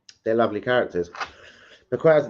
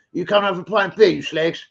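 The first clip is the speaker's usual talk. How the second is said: East London accent; 4 semitones higher than usual. Shown as a demonstration. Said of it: "Talk like this".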